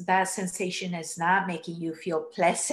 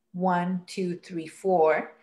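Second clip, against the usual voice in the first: exaggerated breathing; slower than usual. Shown as a demonstration. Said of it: "I'm going to exaggerate the sound of my breathing".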